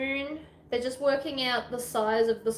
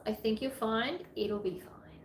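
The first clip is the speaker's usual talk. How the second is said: whispering; 6 dB quieter than usual. Real, not acted. Whispered reassurance.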